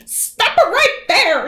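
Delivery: Granny bursting in to save Little Red; yelled. Acted. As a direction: halt him firmly. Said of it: "yelled Granny".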